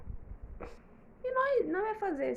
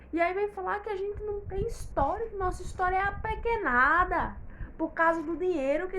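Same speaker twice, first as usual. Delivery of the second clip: indignada; 5 semitones higher, 3 dB louder than usual. Acted. Indignada com quem despreza sua história.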